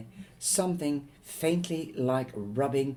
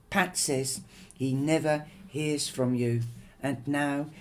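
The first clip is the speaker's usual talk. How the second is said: pity and fury. Acted. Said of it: "her voice mixed with pity and fury".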